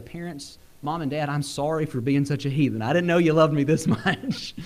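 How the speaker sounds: sheepish confession breaking into a laugh; a grown son apologising to his parents, laughing; laughing apology. Retold or imitated. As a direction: laugh through the apology to mom and dad.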